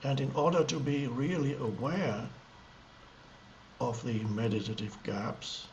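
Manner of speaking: halting, spacious delivery with lengthy pauses mid-sentence; meditative gaps. Shown as a demonstration. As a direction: leave long silences between short phrases. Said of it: "small gaps between words as I talk".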